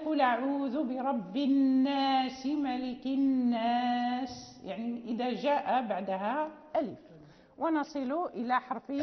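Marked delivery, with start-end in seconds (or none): 0.1-4.6 recited verse ending in a slow الناس; Quran recitation. Shown as a demonstration. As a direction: recite with the last word drawn out. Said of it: "مثلًا".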